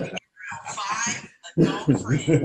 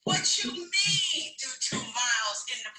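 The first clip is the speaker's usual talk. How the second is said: incredulous protest; 2 semitones higher than usual. Retold or imitated. Inner baby protesting the goals.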